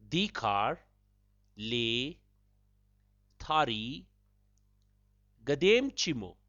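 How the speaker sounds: "Dikhar... le... thari... gadem chimo", a long pause after each word; split up. Shown as a demonstration. Host splits up the Dzongkha phrase for learners, word by word with pauses. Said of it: "I shall split up the phrase for you".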